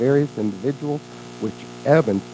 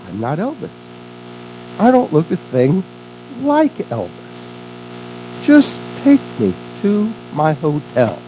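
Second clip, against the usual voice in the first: insistent, with a higher pitch on key words; mild exasperation; 4 semitones higher than usual. Acted. Priest corrects a starstruck cab driver, mildly exasperated. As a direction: protest word by word, a touch fed up. Priest again mistaken for Elvis, protests.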